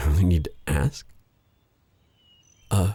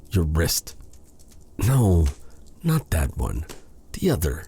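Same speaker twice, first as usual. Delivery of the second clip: hushed whispered direction; 3 dB quieter than usual. Acted. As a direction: breathe it softly, close in. Intimate instruction to listener.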